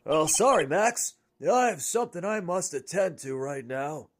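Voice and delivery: a hint of a ringmaster, little bravado; first weak go at a ringmaster; ringmaster voice, timid try. Shown as a demonstration. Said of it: "that's not enough for a ringmaster".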